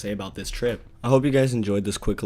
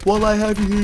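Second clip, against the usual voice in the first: high, louder squeaky little-man voice; cartoonish tiny wizard; 10 semitones higher, 7 dB louder, faster than usual. Imaginary tiny wizard greets the tripping narrator, in a high squeaky voice. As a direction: play a pipsqueak wizard sidekick, pitched way up. Mini Gandalf talking.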